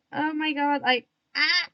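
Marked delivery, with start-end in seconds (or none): 1.3-1.7 short loud "ah" outburst; sudden frustrated yelp. Real, not acted. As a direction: blurt a sharp, loud yelp. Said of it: "keep talking weirdly".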